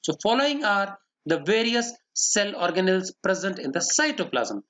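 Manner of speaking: very slow, word-by-word dictation; dictating notes. Shown as a demonstration. Teacher dictating notes to the class, very slow. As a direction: spell it out slowly so students can write.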